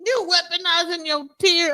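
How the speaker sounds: high, drawn-out disbelieving question; retold incredulity. Retelling a comeback about weaponized tears, incredulous. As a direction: stretch it out in exaggerated disbelief. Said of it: "And I was like".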